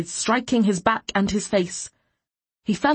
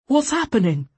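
raised, higher-pitched anxious question; calling out; 6 semitones higher, 4 dB louder than usual. A narrator's reading. Neighbor to man being dragged off, calling out. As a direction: call out to find out the trouble. Onlooker calls out in alarm.

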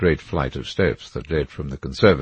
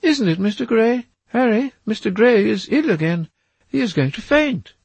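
much higher, louder mock-shocked lady; Duchess cries out; 6 dB louder than usual. A narrator's reading. The Duchess rebuking Harry, much higher and louder. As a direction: tease him with a shocked cry.

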